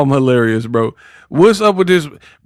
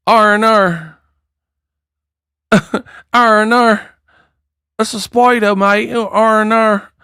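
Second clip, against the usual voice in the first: higher, laughing Aussie impression; mock Aussie accent; 6 semitones higher than usual. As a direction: say spider mate like a cartoon Aussie. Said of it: "they be putting R's on the words".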